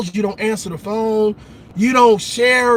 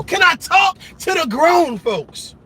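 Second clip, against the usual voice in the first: preachy call out; 6 semitones higher than usual. Real, not acted.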